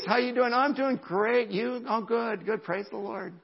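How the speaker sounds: high, fake-cheery small talk; put-on happy face. Churchgoers hiding grief in greetings, falsely cheerful. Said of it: "Put on the happy face".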